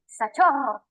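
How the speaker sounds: "sachorro" said with an S as in sapo; wrong S sound. Shown as a demonstration. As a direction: start "sachorro" on a hissed S, not a K. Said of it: "suena como una S de sapo".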